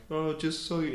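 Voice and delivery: hesitant, stumbling substitute teacher; nervous halting delivery; awkward voice. Retold or imitated. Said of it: "in the most awkward voice".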